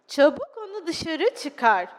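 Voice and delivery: slow, lightly voiced stern order; stern teacher. Teacher ordering the child to take the dog out, stern.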